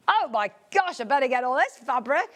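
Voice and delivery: gasping, eager realisation; waking-up amazement. Acted. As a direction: act out suddenly waking to a bargain. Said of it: "everybody has woken up and said".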